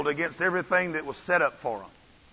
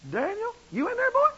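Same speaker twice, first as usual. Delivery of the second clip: much higher, anxious call into the den; a worried king peering into the lions' den. Retold or imitated. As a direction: call down into the pit. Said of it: "in a lamentable voice".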